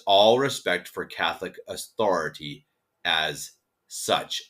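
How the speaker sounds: careful, measured read-aloud of a statement; slow reading. Real, not acted. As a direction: take the quotation phrase by phrase. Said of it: "I'm gonna read it slowly".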